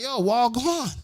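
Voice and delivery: high-pitched, surprised Jamaican patois greeting. Retold or imitated. Traveler testing the white dude, high Jamaican patois. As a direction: test him with a high Jamaican "wagwan". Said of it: "They're speaking patois back and forth".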